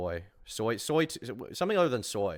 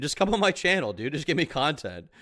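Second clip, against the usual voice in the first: mock pleading; 5 semitones higher, 3 dB louder than usual. Mocking rival begging for content.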